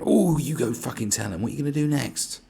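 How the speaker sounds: high, loud mock cheering-on; hammed-up sarcastic encouragement; mock crowd egging on. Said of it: "everyone's gonna be like".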